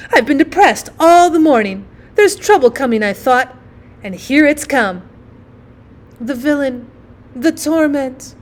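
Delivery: lightly voiced mother bemoaning trouble; lamenting mother.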